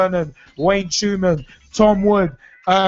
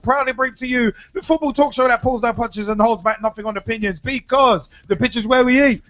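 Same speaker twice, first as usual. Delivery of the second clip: ringmaster; 3 semitones higher than usual. Acted. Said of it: "circus-style show introduction".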